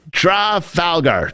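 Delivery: "Trafalgar" drawn out slowly in pieces; botched pronunciation. Real, not acted. Host struggling with the name "Trafalgar", botched pronunciation. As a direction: sound out "Trafalgar" slowly, stumbling on it. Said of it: "I'm saying that so wrong".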